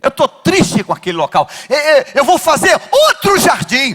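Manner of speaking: lightly voiced sulking God. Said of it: "diria assim".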